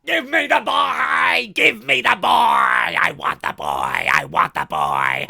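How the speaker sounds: loud, drawn-out monster shriek dropping to a growl; slow, full-force demonic yelling; Chucky impression. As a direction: scream the demand like a killer doll. Performs Chucky demanding the boy.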